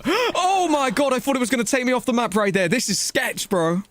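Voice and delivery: high, gasping shock; startled gamer after a near miss. Real, not acted. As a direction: yelp it out, then tumble on in alarm. Sudden near-miss in the game.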